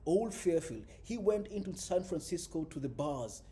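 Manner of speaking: expressive audiobook read with punched openings; dramatic prose reading, lively on the dialogue; story narration. A narrator's reading. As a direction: read the novel aloud, leaning into key phrases. Reads a novel aloud.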